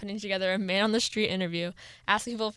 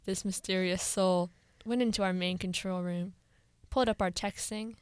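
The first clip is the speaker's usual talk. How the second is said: playful suspenseful storytelling; scary storyteller voice. Pretend. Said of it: "Do you like my sta-, scary voice?".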